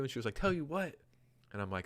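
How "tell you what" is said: alarmed mom. Retold or imitated. Retold mom, alarmed on phone.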